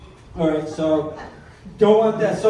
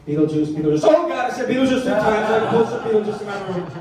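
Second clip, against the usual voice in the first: retold panic; 3 semitones higher, 4 dB louder than usual. Calming chant turns to panic.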